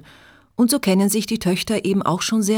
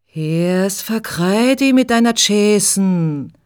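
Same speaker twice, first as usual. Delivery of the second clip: threatening cabbie; 2 semitones higher, 3 dB louder, slower than usual. Acted. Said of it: "droht dem Autofahrer mit der Faust".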